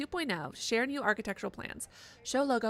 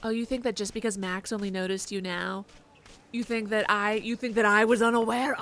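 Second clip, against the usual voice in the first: mock villain taunt, rising louder; taunting gnome; 5 dB louder than usual. Player taunting a hidden gnome collectible, gloating louder.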